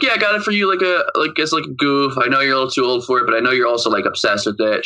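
a hint of a sheepish mom, sped up; lightly acted mom, fast; mom explaining. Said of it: "she's like".

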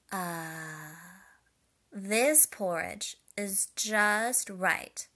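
a contented sigh, then loud and slow; happy Goldilocks. A narrator's reading. Goldilocks finding perfect porridge, happy drawn-out delight. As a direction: savour every word of the relief. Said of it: "she said happily".

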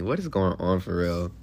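playful giggly voice; giggly mock question. Real, not acted. Laughing at himself in the hotel room, giggly. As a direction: tease yourself through giggles.

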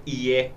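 IE with I and E run together; joined vowels demo. Shown as a demonstration. Explaining the ñ to cohost, IE as two joined vowels. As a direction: say IE slowly, both vowels sounding at once. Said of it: "una i y una e juntas al mismo tiempo".

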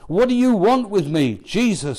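retold demon shout. Preacher re-reading the demon's challenge to Jesus, loud retold shout. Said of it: "he shouted at the top of his voice".

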